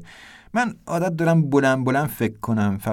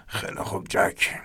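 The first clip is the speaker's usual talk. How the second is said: 1 quiet serious turn; 3 semitones lower, 5 dB quieter than usual. A narrator's reading. Ernest turns serious, hushed.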